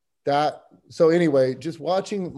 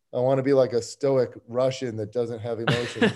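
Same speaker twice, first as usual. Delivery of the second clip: laughing; 2 semitones lower than usual. Retold or imitated. Retelling own thought while laughing.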